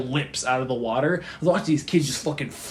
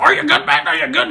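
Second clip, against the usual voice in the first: put-on kid asking worriedly; 9 semitones higher than usual. Kid checking on him.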